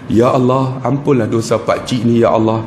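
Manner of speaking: lowish, measured pleading prayer; solemn supplication. Retold or imitated. Ustaz praying as he cuts pakcik's hair, solemn supplication. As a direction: pray earnestly over someone. Prays while cutting uncle's hair.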